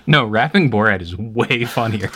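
laughing through the words; amused, laughing aloud. Real, not acted. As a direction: giggle while you say it.

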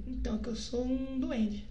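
gruff gravelly dwarf voice. Acted. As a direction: play the dwarf, quiet and slow. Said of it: "Pá, ele".

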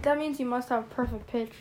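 talking through braces; words slurred round braces. Real, not acted. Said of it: "God, I can't talk with braces".

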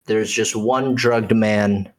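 measured recap, slowing toward the end; lightly dry storyteller summing up; game master narration. Acted. Game master to players after the lobby escape, measured narration.

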